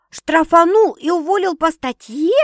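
high, loud shriek of disbelief; squealed. A narrator's reading. Sister fearing she was fired, squealing. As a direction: squeal the question in alarm. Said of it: "взвизгнула сестра".

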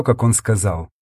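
plain reading voice

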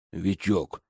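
low, sullen correction of his name; gloomy correction. A narrator's reading. Guard correcting the narrator's mistake about his name, sullenly. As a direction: grumble the name back. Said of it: "поправил он хмуро".

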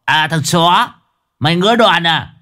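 affronted thug spoiling for a fight; stunned outrage. Acted. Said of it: "Tên chọc đầu sửng sốt".

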